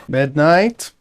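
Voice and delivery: short questioning call, rising at the end. Real, not acted. Player calling to teammate Midnight, questioning call. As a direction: call a name to check for an answer.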